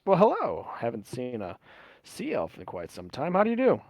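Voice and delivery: a touch of genteel swooping courtesy; courteous drow host. Acted. Voices the drow greeting Birchstorm.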